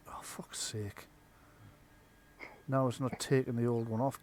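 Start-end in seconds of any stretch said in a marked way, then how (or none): 0.1-1.1 frustrated whisper under breath; whispered curse. Real, not acted. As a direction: hiss it quietly to yourself.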